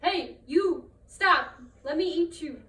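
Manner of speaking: loud, high shout to stop; shouting neighbor. Acted. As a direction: yell after the runaway. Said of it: "and shouted".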